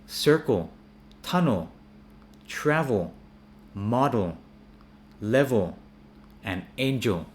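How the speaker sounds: circle, tunnel, travel with dark 'ol' endings. Shown as a demonstration. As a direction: stress each first syllable, level as 'lev-ol'. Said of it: "sounds like an O".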